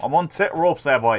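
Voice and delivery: put-on Yorkshire echo; Yorkshire accent. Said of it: "from Irish to fucking Yorkshire".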